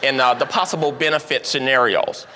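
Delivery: dry, deliberate number-cruncher voice; analytical reasoning. Retold or imitated. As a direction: lay out the calculation coolly, step by step. Green explains cost reasoning.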